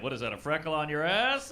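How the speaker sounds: loud accusing yell at her; mock outrage. Guy blaming his partner, loud mock outrage. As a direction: blame her, half-shouting.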